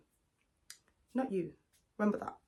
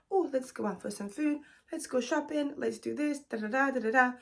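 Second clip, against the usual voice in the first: higher, coaxing mock sweet-talk; mock sweet talker; 4 semitones higher than usual. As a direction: lightly imitate a man buttering her up. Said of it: "Trying to sweeten you".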